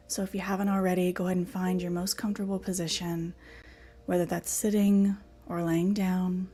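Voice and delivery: measured meditation guidance with long pauses; guided meditation. Acted. Teacher settling the class into a comfortable position, guided meditation. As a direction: guide them into stillness, breath by breath.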